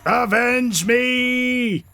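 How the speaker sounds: slow, drawn-out dying cry; overacted death scene. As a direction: ham up a heroic last breath. Character dies in game.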